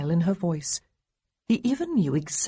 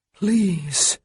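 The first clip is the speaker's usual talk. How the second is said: groaned; 4 dB louder than usual. A narrator's reading. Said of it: "he groaned".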